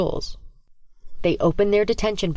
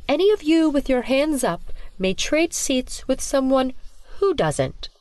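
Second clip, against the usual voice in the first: sinister teacher; 8 semitones higher than usual. Acted. Teacher orders seat swap.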